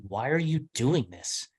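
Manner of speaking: slow retold question with ARE leaned on; emphasis on are. Host presses a guest, stressing "are". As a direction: draw out "are" in "why are you doing this" as the pressing word. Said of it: "it was the emphasis on".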